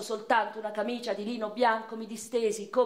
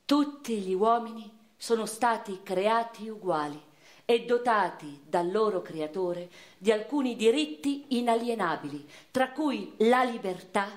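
solemn declamation; 3 semitones higher than usual. Acted. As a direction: read it like a manifesto, swelling to the final word. Reads the American Declaration aloud.

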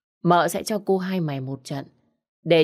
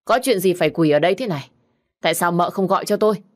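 fast, a bit louder, pressing questions; urgent questioning; 2 semitones higher, 4 dB louder, faster than usual. Acted. Husband finds his wife kneeling, fast alarmed questions. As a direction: fire the questions quickly in alarm. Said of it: "thì kéo mợ lên hỏi".

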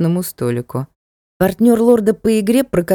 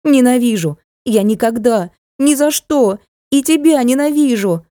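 screaming; 6 semitones higher than usual. A narrator's reading. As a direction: scream your hatred at him. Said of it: "закричала она отцу".

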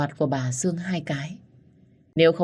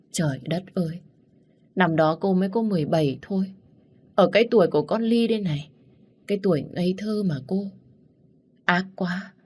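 crying lament; 3 semitones higher than usual. Acted. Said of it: "Dì ấy bật khóc".

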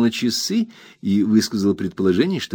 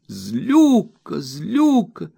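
very high pouting accusation; very high petulant wife accusing her husband; wife's exclamation; 12 semitones higher, slower than usual. A narrator's reading. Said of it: "воскликнула Дора".

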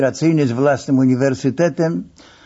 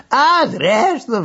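higher, slow exclaimed yell; mock yell; 9 semitones higher, much slower than usual. A narrator's reading. Narrator yells at the masseur, slow and high. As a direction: yell it out, drawn out. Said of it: "wrzasnąłem".

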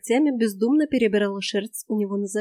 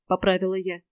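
plain reading voice

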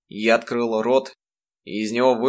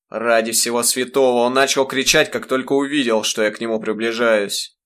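louder, indignant self-defence; an irritated father defending himself, louder; exasperated protest; 4 dB louder than usual. Acted. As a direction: throw up your hands and protest.

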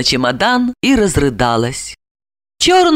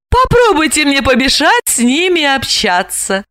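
higher, proud challenge; defiant; 7 semitones higher than usual. A narrator's reading. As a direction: flaunt your freedom. Alexandra defies Gorokhov. (дерзко, торжествующе)

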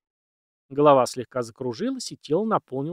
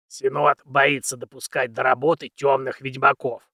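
put-on very old man; 4 dB louder than usual.

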